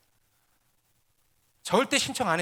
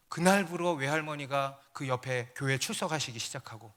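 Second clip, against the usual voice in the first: ordinary talk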